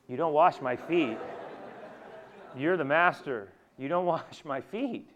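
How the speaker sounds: firm protest with a laugh breaking in; mock-scandalised refusal; indignant protest. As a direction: object firmly, as if it is unthinkable. Acted protest by Peter to Jesus.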